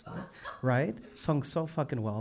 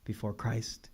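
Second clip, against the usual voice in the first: slow, hushed poem reading; quiet, reverent recitation; poem recital; 5 dB quieter than usual. Real, not acted. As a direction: let each line sink down softly. Reads back a poet's lines.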